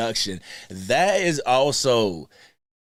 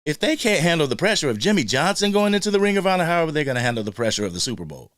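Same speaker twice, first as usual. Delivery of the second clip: a light mock of a pundit, higher and fast; mocking Skip Bayless; 4 semitones higher, faster than usual. Fan mocks Skip Bayless's take on Undisputed, higher and fast. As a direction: rattle it off like a smug TV pundit. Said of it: "was talking like this".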